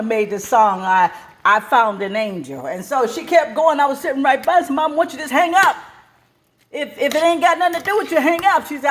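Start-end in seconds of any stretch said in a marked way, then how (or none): 4.7-8.7 put-on child voice. Child urging mother.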